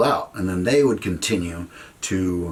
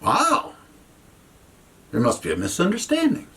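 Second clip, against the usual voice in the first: stunned; 10 semitones higher than usual. Retold or imitated. Stunned reaction to threat of jail.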